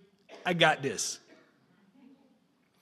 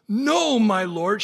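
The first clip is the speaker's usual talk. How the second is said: cried out; 5 dB louder, much slower than usual. Acted. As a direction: burst out in protest. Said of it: "she cried".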